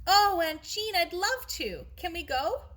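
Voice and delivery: high, loud eager plea; excited. A narrator's reading. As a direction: beg with delight. Sarah thrilled by holiday news.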